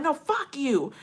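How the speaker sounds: retold defiant retort. Woman refusing partner's call to chill, retold defiance.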